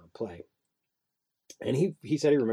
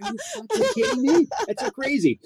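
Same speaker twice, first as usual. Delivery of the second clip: high, loud, fast astonished cry; amazed disbelief; 7 dB louder than usual. Retold or imitated. Speaker reacts to the neighbor's news, astonished. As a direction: shriek in happy disbelief. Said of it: "I'm like".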